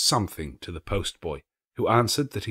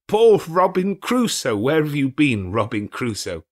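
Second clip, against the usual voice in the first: parrot imitation; 6 semitones higher, 5 dB louder than usual. A narrator's reading. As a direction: play the parrot calling its master. Scrooge mimics parrot.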